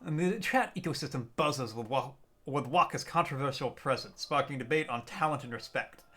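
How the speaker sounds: nature documentary. Pretend. Narrating chat like wildlife.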